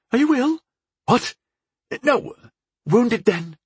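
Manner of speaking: lightly voiced, anxious young healer; high, hurried and startled; startled young woman. A narrator's reading.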